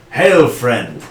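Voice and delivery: booming hearty warrior greeting; Skarn impression. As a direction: hail him like a proud warrior. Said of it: "he will do his best impression of Skarn".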